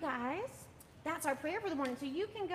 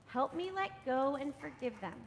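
slow, gentle plea to let go; calm plea after the angry line; gentle release prayer. Shown as a demonstration. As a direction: ease it out slowly. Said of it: "Then you open your fists".

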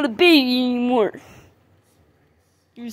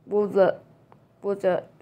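shark puppet voice; 5 semitones lower, 7 dB quieter than usual. Acted. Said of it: "I'll do the shark puppet voice".

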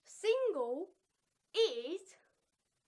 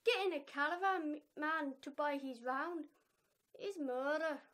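put-on amateur Irish accent, feeling out each word; attempted Irish accent. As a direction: try an Irish accent, not very well. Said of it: "okay, in Irish accent".

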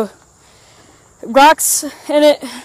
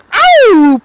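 pained yelp; 10 semitones higher, 9 dB louder than usual. Real, not acted. Hurt while riding toy car.

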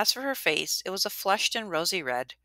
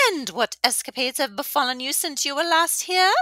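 high, eager questioning voice; pry with relish; delighted old widow; 10 semitones higher, 5 dB louder than usual. A narrator's reading. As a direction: innkeeper widow asking Bear for gossip.

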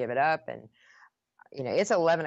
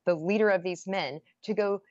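higher, heated protest; indignant rant; 4 semitones higher than usual. Retold or imitated. Wife lecturing her husband about her leadership, indignant. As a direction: build the outrage.

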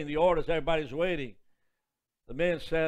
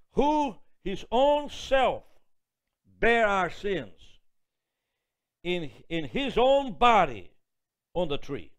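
slow, louder, measured Bible reading; solemn scripture reading; 4 dB louder, slower than usual. Acted. Preacher reading First Peter aloud, slow and solemn. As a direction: read each phrase slowly like holy writ.

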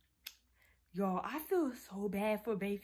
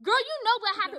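high, loud, fast scolding; heated, rapid telling-off; angry accusation; 10 semitones higher, 6 dB louder, faster than usual. Real, not acted. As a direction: accuse her sharply. Quarrel with sister.

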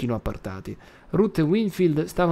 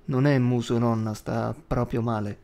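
gently. Acted. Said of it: "disse con dolcezza".

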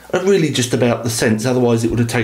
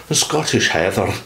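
a cheesy mock Scottish accent; bad Scottish accent; 2 semitones lower than usual. Reviewer naming the scent in a bad Scottish accent. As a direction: ham up the Scottish lilt. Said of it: "really bad accent".

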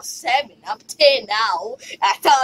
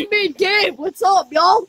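loud, upbeat channel intro; vlogger greeting; 2 semitones higher, 5 dB louder, slower than usual. Pretend. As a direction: greet the viewers like a YouTuber. Mock vlog intro to viewers.

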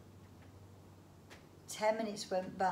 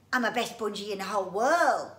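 squeaky bragging bungee; proud squeaky creature; 3 semitones higher, 13 dB louder than usual. Acted. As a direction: crow it out like a proud little beast.

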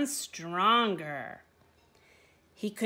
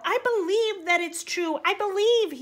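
high, loud, overjoyed cry; bursting out; 10 semitones higher, 5 dB louder than usual. A narrator's reading. Donkey bursting out his belief to the man. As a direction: blurt it out, full of new faith. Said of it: "The donkey burst out".

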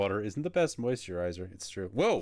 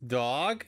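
"Dog?" with a rising question tune; 2 semitones higher than usual. Retold or imitated. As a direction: say "Dog?" as if asking, rising at the end. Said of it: "It's like a question".

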